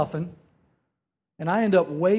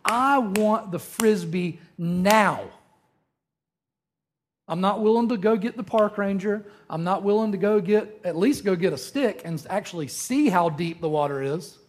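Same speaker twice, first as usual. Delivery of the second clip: impatient demand; 2 semitones higher than usual. Retold or imitated. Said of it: "but we go".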